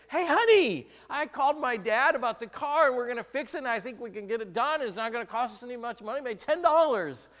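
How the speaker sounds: high, loud eager news to wife; husband telling his wife the car news, very high and loud; excited. Retold or imitated. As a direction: burst in bursting with good news. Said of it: "I'm all excited".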